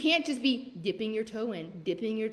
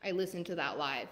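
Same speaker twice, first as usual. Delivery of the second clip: softer, gentle voicing of a thankful listener; grateful follower, quiet; 4 semitones lower, 7 dB quieter than usual. Voicing a listener's thankful message, softly. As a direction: speak it as a happy, relieved follower. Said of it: "be messaging me and be like".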